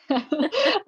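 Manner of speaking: goat-like bleating laugh. Real, not acted. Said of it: "I went for goat noise".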